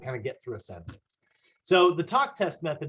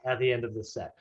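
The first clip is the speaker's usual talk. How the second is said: coach instruction. Retold or imitated. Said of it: "I will often describe it as".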